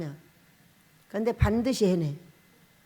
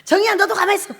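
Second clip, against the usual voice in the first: higher, louder scolding through laughter; laughing scold; 8 semitones higher, 6 dB louder, faster than usual. Retold or imitated. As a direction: tell the girl to stay still, amused.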